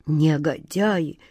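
low, slow, drawn-out contempt; contemptuous. A narrator's reading. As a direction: spit the word out slowly with scorn. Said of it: "с презрением сказал капитан Тинтиныч".

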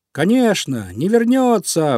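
high, eager agreement; emphatic high cheer, drawn out at the end; animals chiming in. A narrator's reading. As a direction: chime in gladly like a crowd of small animals. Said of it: "поддержали его звери и птички".

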